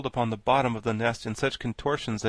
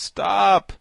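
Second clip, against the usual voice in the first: loud, high cry to stop; raised-voice plea; 9 semitones higher, 10 dB louder than usual. A narrator's reading. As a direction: cry out in protest. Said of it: "cried the Pumpkinhead".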